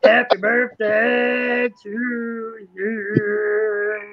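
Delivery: mock crying song. Slow mock sob birthday song.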